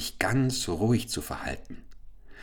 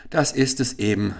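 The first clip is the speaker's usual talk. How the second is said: sighing; 4 semitones higher than usual. Acted. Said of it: "seufzte der Kalif".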